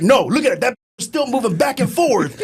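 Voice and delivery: high, loud mock bark with a laugh breaking in; imitating a yelling drill instructor. Drill instructor yells at recruit about his moving eye, mock shout. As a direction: play the drill instructor shouting and barely holding back laughter.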